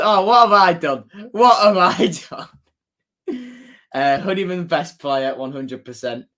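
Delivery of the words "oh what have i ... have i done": mock panic. Mock panic after cancelling.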